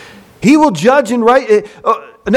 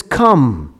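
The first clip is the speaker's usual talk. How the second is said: God's command; 7 semitones lower than usual. Acted. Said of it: "And he says".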